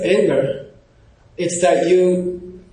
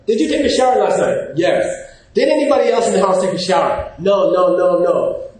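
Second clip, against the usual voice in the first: mock interrogation. Acted questioning of a roommate.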